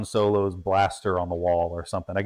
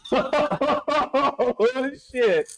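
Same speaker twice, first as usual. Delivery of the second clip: shocked; much slower than usual. Real, not acted. Sniffing smelling salts.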